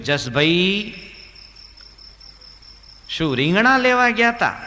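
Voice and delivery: high, loud mock shout; deaf man shouting. Chaturbhai shouts his question to Jasbhai, high and loud. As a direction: yell the question at a deaf friend. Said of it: "હંમેશા જોરથી જ બોલવાનું".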